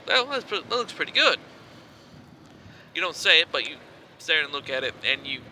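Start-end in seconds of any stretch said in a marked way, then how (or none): 0.1-1.4 high-pitched inner-monologue voice; acted thought in a raised voice. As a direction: lift the pitch well up, as a thought voiced in the head. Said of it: "You think to yourself".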